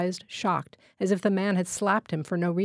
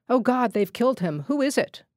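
higher, louder alarmed outcry; old villager crying out at the shot man; 5 semitones higher, 3 dB louder than usual. Acted. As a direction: cry out in shock at the body.

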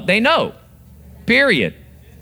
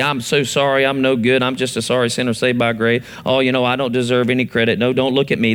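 mock groveling, lower voice; false humility; 5 semitones lower than usual. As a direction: whine like a sorry sinner who refuses credit. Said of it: "That's not humility".

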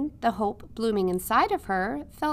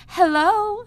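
much higher and louder, calling out merrily; merry call; 11 semitones higher, 10 dB louder than usual. A narrator's reading. Princess calling merrily to Midge from her horse. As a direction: call out a cheerful hello across the field. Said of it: "called out merrily".

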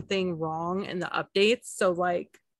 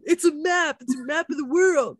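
louder, higher mock yell; mock shout; 8 semitones higher, 5 dB louder than usual. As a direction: shout it like helping out. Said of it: "Devin trying to help him".

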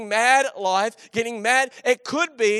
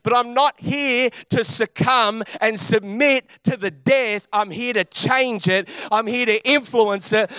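preaching at full force. Acted. Preacher urging congregation to bring life to dry bones, impassioned. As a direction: build the testimony into a rousing declaration.

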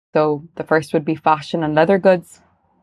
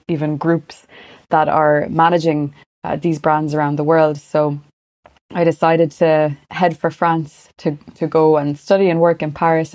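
west of Ireland accent. Real, not acted. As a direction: speak with an Irish west-coast accent. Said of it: "I'm from Galway originally".

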